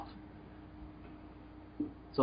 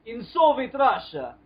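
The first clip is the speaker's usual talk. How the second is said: attempted Russian accent; 5 semitones higher than usual. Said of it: "that's more Italian".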